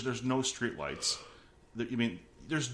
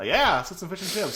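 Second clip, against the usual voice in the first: higher, louder, hammed-up British accent; bad British accent; 9 semitones higher, 7 dB louder than usual. The speaker mimics Peter's accent back, hammed-up British. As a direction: overdo the English accent, laughing at yourself. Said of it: "my accent's so terrible".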